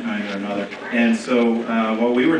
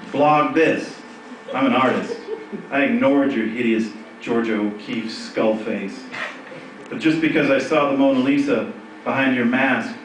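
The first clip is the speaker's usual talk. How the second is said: emphatic verse with falling line endings; performed comic poem. Acted. Poet telling off an online lover for laughs, emphatic comic poetry reading. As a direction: punch the openings, drop away at the ends, build toward the finish.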